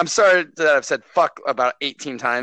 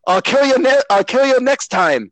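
raised, mock menacing villain line; mock villain threat; 7 semitones higher, 4 dB louder than usual. Mocking the villain's threat to Batman. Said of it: "and then he goes".

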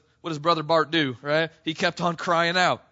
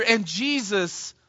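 slow down and let it land; preacher repeating the key moment slowly; slow dramatic beat; much slower than usual. Shown as a demonstration. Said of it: "dramatic repeat, slowed".

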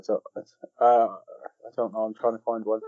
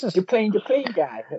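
higher, slow film-character impression; Deplane guy impression; 9 semitones higher, slower than usual. Quoting Deplane guy from the film to the co-hosts, character impression. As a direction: put on a drawn-out, high-pitched character voice. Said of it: "That is an excellent impression".

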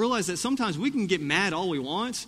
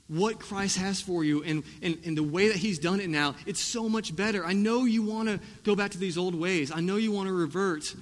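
urgent pleading challenge, pitched up; challenging; 4 semitones higher than usual. Retold or imitated. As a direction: press them earnestly not to miss it. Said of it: "he's just challenging them".

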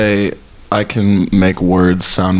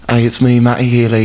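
impression of a singer; 4 semitones higher than usual. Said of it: "It's my actual Matty Healy impression".

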